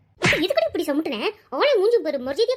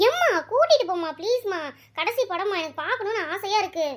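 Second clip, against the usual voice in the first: put-on pleading child. Daughter begs mother for movie.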